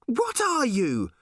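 loud, high, slow alarmed shout. A narrator's reading. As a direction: yell it at the strange bird. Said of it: "shouted Random".

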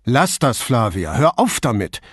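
a touch of sharpness in Brunetti's voice; sharp rebuke. Acted. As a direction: cut her off firmly. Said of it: "sagte er so scharf".

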